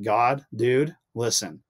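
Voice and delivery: venting at God, fed up but not shouting; retold frustration, pleading and worn out; frustrated plea to God. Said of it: "I would get so frustrated 'cause I'm like".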